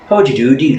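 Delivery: lightly demonstrated northern Irish lilt; a quick musical sample of a northern Irish accent. Shown as a demonstration. Host showing co-host how northern accents sound, musical Irish lilt. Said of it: "a bit more musical".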